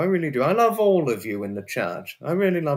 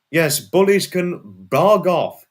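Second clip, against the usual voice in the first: angry rant; 3 semitones higher, 5 dB louder, slower than usual. Real, not acted. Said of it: "I had to rant about bullies".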